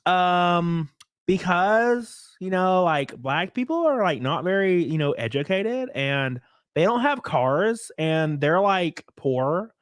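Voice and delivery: hesitant mock Valley Girl; lightly voiced Valley Girl drawl; Valley Girl accent. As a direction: imitate a Valley Girl explaining haltingly. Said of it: "in their Valley Girl accent".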